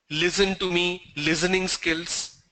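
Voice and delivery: "Listen" and "listening" with z, LIZ-en; common mispronunciation. Retold or imitated. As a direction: say "Listen" as lizzen, "listening" as lizzening. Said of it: "Lot of people pronounce that as listen".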